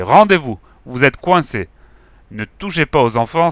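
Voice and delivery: booming. Acted. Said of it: "a tonné la voix".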